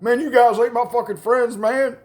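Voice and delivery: high, loud mock wailing; tearful whine. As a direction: whine as a betrayed friend near tears. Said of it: "a little tear fell down his eye".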